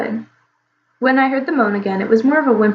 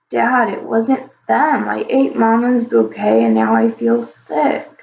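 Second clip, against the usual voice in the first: put-on sick child; slower than usual. Sick child explains weakly.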